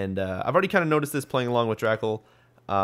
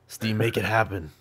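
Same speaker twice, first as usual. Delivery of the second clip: slow, put-on pleading to Steam. Gamer begging Steam for a Halo release, slow put-on voice. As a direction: make the wish in a slow, silly voice. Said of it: "why I did that voice".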